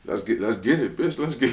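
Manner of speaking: high, loud battle call; fired-up challenge. Retold or imitated. Rapper taking on a disrespectful challenger, loud and fired up.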